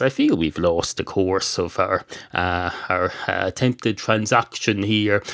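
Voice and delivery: prim deodorant bottle. Acted. Deodorant bottle replies primly.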